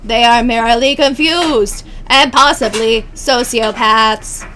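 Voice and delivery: robotic voice, throat rubbed. Acted. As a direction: stiff formal robot voice. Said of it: "make my voice sound more robotic".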